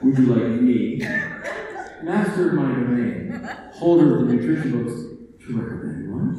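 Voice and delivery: laughing, lordly offer of help; mock arrogant librarian. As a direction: ham up the haughty keeper of the books. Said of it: "it often gets interpreted as".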